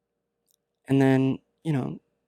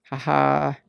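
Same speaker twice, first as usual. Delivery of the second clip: maniacal laugh. Shown as a demonstration. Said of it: "maniacal laughter".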